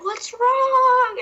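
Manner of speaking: high, loud worried ask; high caring what's wrong; concerned question. Retold or imitated. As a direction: call out in sudden concern. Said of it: "she's like".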